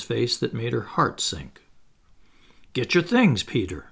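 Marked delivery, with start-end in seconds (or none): none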